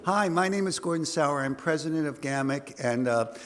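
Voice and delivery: hoarse, gravelly voice. Real, not acted. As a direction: voice worn rough from singing. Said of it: "if I sound a little gravelly".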